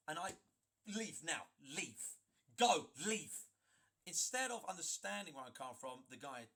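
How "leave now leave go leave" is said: building to a loud shout on go leave; retold stern command rising to a yell; firm order. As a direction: order him out, getting louder.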